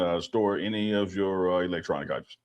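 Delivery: calm captain over the intercom; pilot cockpit headset. Pretend. Playing pilot landing the plane.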